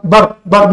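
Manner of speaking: بر clipped short, no long a; بر with a short vowel; short bar sound. Shown as a demonstration. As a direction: say بر quick and short. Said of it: "مش بار".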